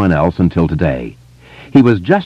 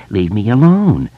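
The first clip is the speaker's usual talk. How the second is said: hammed-up mock terror; mocking mimicry; 3 semitones higher than usual. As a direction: mimic the plea with fake fear. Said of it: "Henry mimicked".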